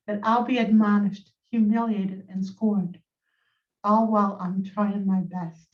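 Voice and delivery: measured poetry reading with pauses between lines; poem recitation. Acted. Poet reading own poem to listeners on a call, measured recitation. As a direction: recite it line by line, letting each phrase settle.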